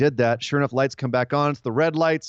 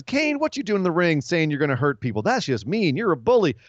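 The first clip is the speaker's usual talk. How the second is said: imitating Bray Wyatt; 3 semitones higher than usual. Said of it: "he cuts a promo where he says".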